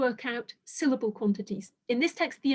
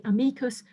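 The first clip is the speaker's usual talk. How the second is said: amicus stressed on its middle syllable, the "i"; stress on second syllable. Shown as a demonstration. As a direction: say amicus with the weight on "mi". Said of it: "if you put the stress on it".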